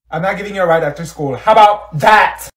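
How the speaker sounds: loud, slowed angry payoff; angry shout. Real, not acted. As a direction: yell it as a threat. Threatening friend after prank.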